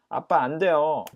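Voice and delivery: put-on 1 pleading child.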